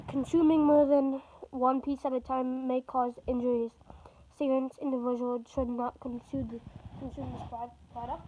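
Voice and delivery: reading a warning label out loud. Real, not acted. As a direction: announce the caution text loudly. Reads warning label aloud loudly.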